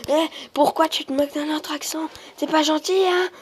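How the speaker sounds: high, whiny Québécois impression; put-on Québécois voice, pitched high; mock Québécois accent. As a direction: imitate an offended Québécois viewer. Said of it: "il y a des Québécois".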